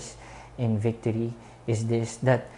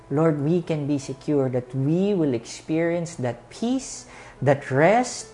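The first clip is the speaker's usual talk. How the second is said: earnest pastor's closing prayer. Acted. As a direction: pray over the congregation with music.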